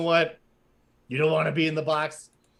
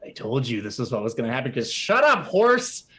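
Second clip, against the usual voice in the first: snapping at horse; 4 semitones lower than usual. Acted. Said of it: "looks over and says".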